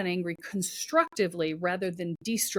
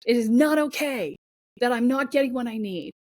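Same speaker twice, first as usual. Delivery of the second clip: louder and higher, anger growing line by line; building indignation; 4 semitones higher, 3 dB louder than usual. Pretend. Voicing a fed-up inner self to the host, rising anger. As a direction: let the frustration swell until it's fed up.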